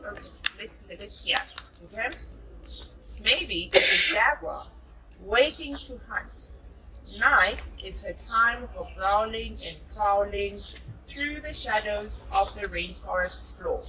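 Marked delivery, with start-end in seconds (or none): 3.2-13.8 put-on reading a picture book aloud to a child; storybook narration, gently paced; story reading. A narrator's reading. Mother reading a jungle story to her child.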